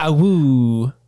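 wolf howl. Retold or imitated. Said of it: "that was what we would do".

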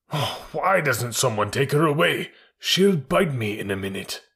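lightly voiced nervous elephant, coaxing then scolding; a touch of fretful panic; flustered elephant. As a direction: plead and threaten by turns with a small dog. Elephant frightened of little dog.

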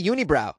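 "unibrow" said yoo-nee-brow, Boston style; "unibrow" with a long ee sound; Boston pronunciation. Shown as a demonstration. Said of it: "That's how we say it in Boston".

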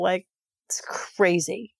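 hushed whispered aside. Real, not acted. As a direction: drop to a whisper in awe. Awed aside about sensation.

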